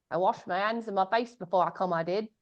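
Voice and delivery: lightly put-on Cockney flower girl; a touch of mock Cockney, as in My Fair Lady; Cockney accent imitation. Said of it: "she comes in like that".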